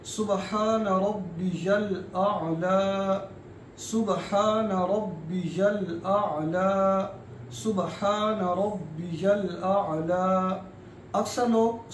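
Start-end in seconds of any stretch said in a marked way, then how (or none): 0.0-10.2 slow, drawn-out Arabic recitation. Shown as a demonstration. Teacher reciting slowly for students to copy. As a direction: recite each word slowly and clearly. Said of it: "तो हम सबक शुरू कर रहे हैं".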